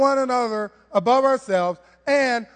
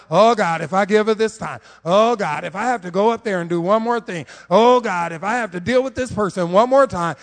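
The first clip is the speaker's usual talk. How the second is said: exasperated groan; 2 semitones lower than usual. Retold or imitated. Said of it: "A lot of people feel like".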